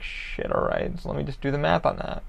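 half-voiced mutter under the breath; muttered to himself. Shopper annoyed at the shipping price, muttered under breath. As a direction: mutter it like a grudging thought. Annoyed aside about the cost.

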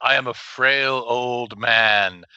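put-on frail old man voice, slow; lightly voiced feeble old man. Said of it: "he's always like".

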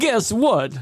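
high, breathy celebrity impression; Christopher Walken. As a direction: put plenty of breath into it. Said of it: "You were more breathy".

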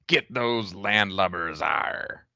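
lightly voiced slow pirate; a half-hearted pirate try; pirate dialect. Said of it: "in your best pirate dialect".

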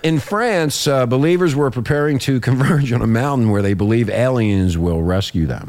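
radio report read aloud; news read. Acted. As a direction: read it out like a newscaster. Host reads a news report.

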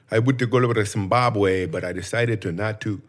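badly faked African accent; mock African accent, played for laughs; vague African accent. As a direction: put on an unplaceable African accent. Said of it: "It sounds like an African accent".

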